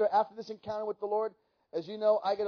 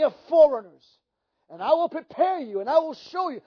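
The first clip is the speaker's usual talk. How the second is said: raised, emphatic voice of God; 4 semitones higher, 5 dB louder than usual. Retold or imitated. Preacher repeating God's call to the congregation, voice of God. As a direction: proclaim it as a divine commission. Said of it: "I hear the voice of God say".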